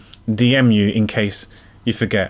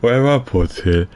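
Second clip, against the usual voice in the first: detective character voice. Acted. Reads detective character lines.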